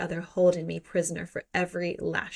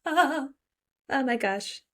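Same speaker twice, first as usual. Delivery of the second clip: high-pitched mock fluster; flustered swoon; 6 semitones higher, slower than usual. Reader reacting to the hero's bold command, hammed-up fluster. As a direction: gasp it high, as if overcome.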